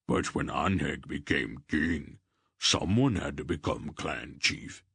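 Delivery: a lightly voiced gruff clan chief, offhand; Barak's voice. Barak tells Geryon about his clan title, lightly voiced. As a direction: lightly voice the big warrior, shrugging off titles.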